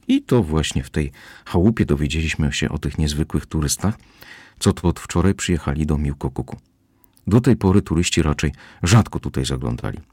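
usual speaking voice

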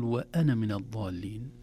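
'وأنا' recited slowly, the alif unspoken in linking; slow Quranic recitation of 'وأنا من الضالين'; recited example. Shown as a demonstration. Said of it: "انظروا جيدا إلى الألف في كلمة أنا".

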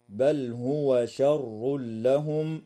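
slow chanted tajweed recitation; Quran recitation. Shown as a demonstration. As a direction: recite slowly with measured chant. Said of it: "اللام في كلمة بل تسمى بلام الحرف". (تلاوة مجودة بطيئة)

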